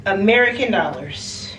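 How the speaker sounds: very slow, word by word; drawn-out disbelief. Real, not acted. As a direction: stretch out the price, pausing between words. Stressing a shocking towel price.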